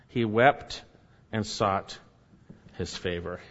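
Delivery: "He wept and sought his favor" repeated quietly, fading low. Shown as a demonstration. Scene: preacher repeating the verse to let it sink in, softly.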